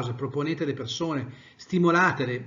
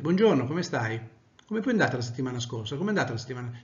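indifferent; faster than usual. Shown as a demonstration.

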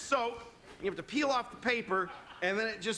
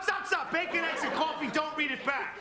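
impatient cutting off; 6 semitones higher than usual. Retold or imitated. Guest cutting off a chatty room service operator, impatient and clipped. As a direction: rattle off the order over them, pushy.

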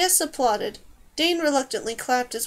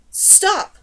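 high, loud, sharp command; urgent cry; 7 semitones higher, 5 dB louder than usual. A narrator's reading. Dane to rats swarming Varys, urgent cry. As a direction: cry it out high to halt them. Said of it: "Dane cried".

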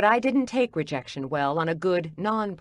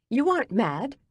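rising voice; 7 semitones higher than usual. A narrator's reading. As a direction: push the voice up, indignant. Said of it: "my voice rising".

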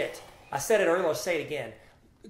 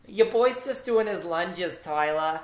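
hammed-up Jersey accent; 2 semitones higher, 5 dB louder, slower than usual. Gym guy bragging to Tyler, hammed-up Jersey accent. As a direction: play a slow, loud Jersey guy. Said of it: "I'm from Jersey".

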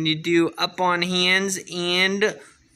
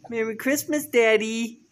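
voicing the baby; 6 semitones higher than usual. Shown as a demonstration. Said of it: "Can you say Merry Christmas".

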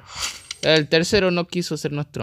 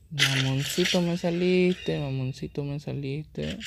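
mocking taunt; 4 semitones higher, slower than usual. Real, not acted. Taunting opponent.

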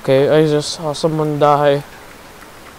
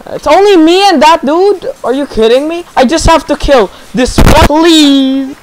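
high tense pleading; panicked pleading; 8 semitones higher, 5 dB louder than usual. Real, not acted. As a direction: beg under pressure. Final fight tension.

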